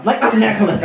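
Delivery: Cornish sea-dog, amused; Cornish pirate accent. Acted. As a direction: lapse into comic Cornish. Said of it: "it sounds very Cornish now".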